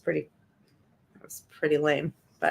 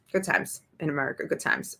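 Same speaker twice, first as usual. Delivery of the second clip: sarcastic murmur; 5 dB quieter than usual. Real, not acted. Repeated sarcastic aside.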